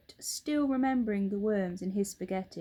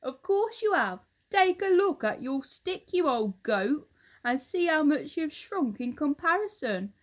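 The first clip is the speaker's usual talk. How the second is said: put-on a louder, gloating old husband; Mr Twit; 6 semitones higher, 5 dB louder than usual. Husband taunts his wife, loud and gloating. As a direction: lean in, relishing the lie.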